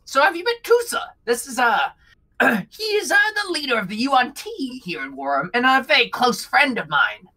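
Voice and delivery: very high, excited little kobold voice; squeaky kobold Bug. Acted. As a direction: pitch way up like a tiny cheerful goblin. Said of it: "he goes".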